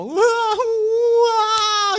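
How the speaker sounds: very high, loud mock sobbing wail; hammed-up loud crying; imitated wailing. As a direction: wail again like a weeping relative. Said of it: "Saya pikir lagi berantem".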